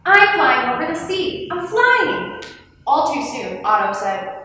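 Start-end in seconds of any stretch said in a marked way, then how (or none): 0.0-2.4 high, elated exclamation, climbing higher; exuberant, high-pitched cry; thrilled shout. A narrator's reading. Leo thrilled to be flying.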